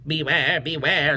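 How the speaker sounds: understated bee warning; lightly voiced, ominous call of warning. Bees warn the bear, understated calling voice. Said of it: "called the bees to the bear".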